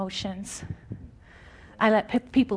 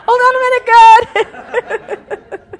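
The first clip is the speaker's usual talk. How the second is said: loud, much higher, cheeky dismissive voice; mock brush-off; 12 semitones higher, 13 dB louder, much slower than usual. Preacher mocking someone putting God on hold, high and cheeky. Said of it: "Can you imagine?".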